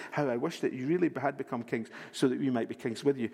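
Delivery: sarcastic reread, low and dry; dry sarcasm. Acted. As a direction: say it with a wry sneer. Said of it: "he's being a little bit sarcastic here".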